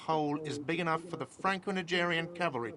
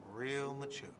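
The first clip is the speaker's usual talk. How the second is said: softer resentful repeat of Real mature; sulky mutter; 5 dB quieter than usual. Acted. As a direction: mutter Real mature under the breath, bitter. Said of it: "a whiny voice shouts".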